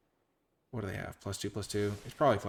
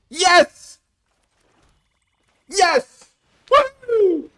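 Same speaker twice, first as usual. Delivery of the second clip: very high, loud whoops; elated cheering; 19 dB louder, much slower than usual. Real, not acted. Card player drawing the needed swamp, high jubilant cheering. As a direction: shriek with real delight.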